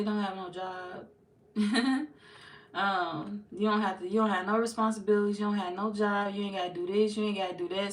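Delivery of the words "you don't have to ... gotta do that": put-on teasing a kid. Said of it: "Some of y'all can talk to a child like that".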